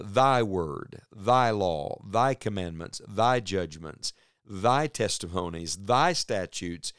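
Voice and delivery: each "thy" punched at the head of its phrase; stress on THY. Shown as a demonstration. Preacher listing the psalm's emphasis, stress on every "thy". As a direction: lean on "thy" every time, listing item by item. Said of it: "is this emphasis on the words".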